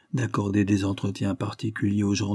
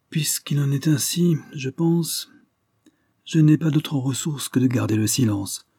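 lent et chuchoté au début, hésitant; il cherche ses mots avant de céder; 5 semitones higher than usual. Acted. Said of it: "en hésitant". (hésitation à mi-voix)

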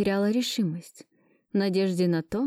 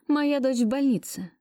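pleading; 6 semitones higher than usual. Acted. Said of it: "начала я".

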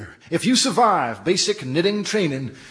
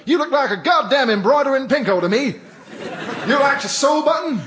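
drill sergeant; 4 semitones higher than usual. Acted.

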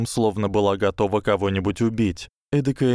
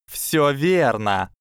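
sinister low voice; 5 semitones higher, much slower than usual. A narrator's reading. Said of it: "зловещим низким голосом сказала Трейси".

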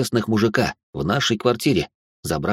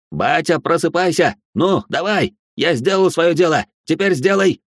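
desperate urging; 7 semitones higher than usual. A narrator's reading. Baby urges father to wake.

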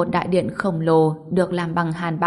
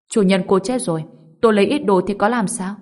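quick, slightly louder protest; hurried explanation; 2 semitones higher, 4 dB louder, faster than usual. Acted. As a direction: rush the excuse out. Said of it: "Anh vội giải thích".

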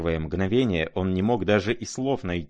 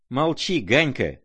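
high-pitched angry cry; shouted order; 6 semitones higher than usual. A narrator's reading. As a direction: shout him down, pitched well up. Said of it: "закричал Коля".

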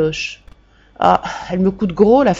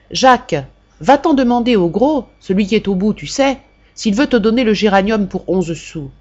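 mother calling; 3 semitones higher than usual. Retold or imitated. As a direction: call the boy over like his mother, then settle. Mother calls her son over.

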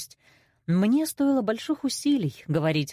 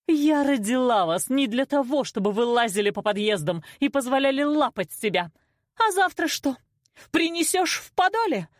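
high scolding climbing higher; outraged accusation; 7 semitones higher than usual. A narrator's reading. Mother scolds daughter about boys, outraged. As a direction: rail at her, climbing to high questions.

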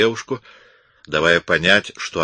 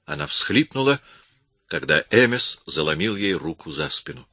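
usual speaking voice

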